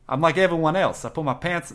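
put-on botched impersonation in a Boston accent; failed Boston accent. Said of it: "It's just a Boston accent".

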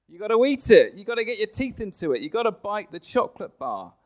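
emphatic preaching. Real, not acted. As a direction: really push it, almost shouting. Preacher urging congregation, chocolate bar.

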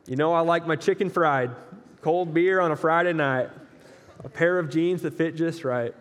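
lyrics in a lightly put-on country accent. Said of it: "like my country accent there".

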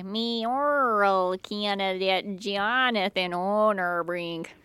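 slow, stiff robot voice. Shown as a demonstration. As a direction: spell each word out like a machine. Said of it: "That sounded like a weird robot".

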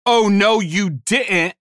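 lightly voiced outraged teacher, high and loud on oh no; a hint of a scandalized teacher catching a student; Senor Chang impression. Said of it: "to quote the inimitable Spanish teacher, Senor Chang".

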